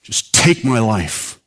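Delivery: rising anguished plea, slow and pleading; desperate cry to God. Retold or imitated. Minister crying out to God in his car, anguished plea. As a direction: beg God to end it, voice cracking upward. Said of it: "He just blurted out".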